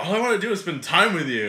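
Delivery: put-on Valley Girl-like gay voice. Customer pleading to spend time together, mock Valley Girl voice. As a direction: imitate a clingy guy in a put-on voice. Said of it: "your gay voice kinda sounds, like, your Valley Girl voice".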